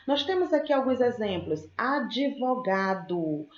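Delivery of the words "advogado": "Advogado" very slow, syllable by syllable; D-V separated. Shown as a demonstration. Teacher showing an imperfect cluster, slow syllabic demo. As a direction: stretch "advogado" so D and V fall apart. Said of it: "um encontro consonantal D, V".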